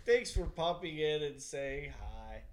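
soft, drawn-out, near-whispered delivery; hushed voice. Shown as a demonstration. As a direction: say it slowly under your breath, dropping into a whisper. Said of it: "That's how I should talk".

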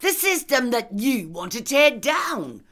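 high, loud, indignant comeback; sharp retort. A narrator's reading. Anne throws Lindy's accusation back at her, retorting loudly. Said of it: "retorted Anne".

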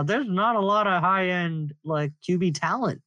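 speaking with the jaw clamped; talking through teeth. Real, not acted. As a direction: barely open the mouth. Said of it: "I'm talking through my teeth right now".

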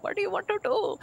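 high-pitched mock Indian accent; date's Indian accent, imitated. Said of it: "a little bit of an accent".

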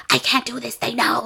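a touch of mock panic to her friend; lightly imitated freak-out. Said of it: "Like, she freaks out".

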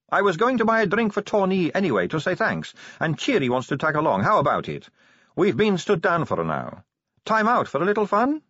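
high-pitched coaxing invitation; Sally, sociable vampire. Acted. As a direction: coax her out in a high voice.

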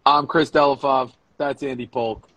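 deliberate host introduction; show announcer. Real, not acted. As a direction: announce the show and sponsors, stretching the words.

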